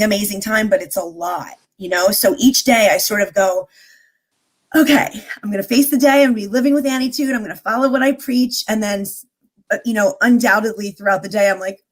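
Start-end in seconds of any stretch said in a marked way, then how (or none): 4.7-8.6 mildly acted, higher-pitched resolve; self pep talk. Guest reenacts her morning pep talk to herself, higher and resolute. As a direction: gear yourself up for the day.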